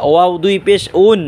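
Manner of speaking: "ওয়াও" and "উন" with both lips rounded; "উন" begun with a rounded w glide. Shown as a demonstration. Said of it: "ওয়াও দুই টুর গুল করিয়া".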